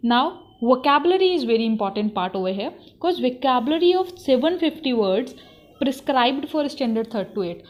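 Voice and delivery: slow, deliberate reading of syllabus headings; syllabus dictation. Shown as a demonstration. Teacher reading the syllabus to trainees, slow and deliberate. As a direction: read each item out slowly so students can note it. Reads syllabus items slowly aloud.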